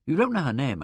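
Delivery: usual speaking voice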